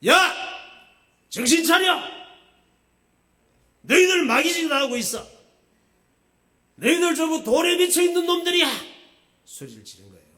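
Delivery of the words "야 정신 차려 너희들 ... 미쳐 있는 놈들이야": high, very loud enacted rebuke; acted angry shouting. Pastor acting Jesus yelling at the scribes and Pharisees, furious shout. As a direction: yell it at them as an outraged Jesus. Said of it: "소리 지르셨죠".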